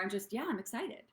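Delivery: offhand, mildly pleased; just okay excited; casually excited. Shown as a demonstration. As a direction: shrug it off lightly. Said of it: "There's a difference".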